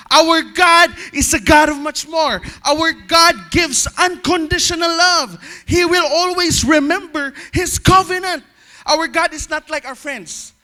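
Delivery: loud, rising preacher's proclamation; preaching. Acted. Preacher proclaiming to his church, loud and fervent. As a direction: proclaim it to the congregation full voice. Preacher reading at full force.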